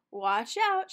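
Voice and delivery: Shaggy shouting a warning. A narrator's reading. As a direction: yell to warn Velma. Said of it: "Shaggy shouted".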